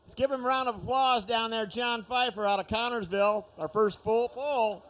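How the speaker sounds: lively arena announcer call; tractor pull announcer. Acted. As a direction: announce it to the grandstand. Announcing qualified puller, applause.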